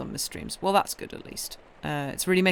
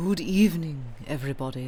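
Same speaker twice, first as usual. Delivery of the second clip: spooky, eerie put-on haunted-house voice; 4 semitones lower than usual. Greeting everyone at the start of a reading session, in a spooky voice. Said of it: "This is my spooky voice".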